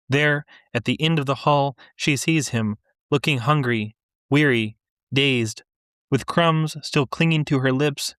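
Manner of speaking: measured, unhurried literary reading; story narration. A narrator's reading. Author reading her story to a listening audience, measured narration. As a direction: read it to the room like a practised author.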